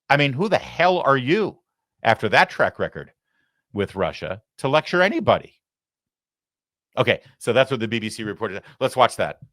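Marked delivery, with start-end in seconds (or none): 0.1-5.6 worked-up, rising demand at a rival; frantic. Real, not acted. Host ranting at a former president, frantic. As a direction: fire the question off in a frenzy. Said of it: "as frantically as I did".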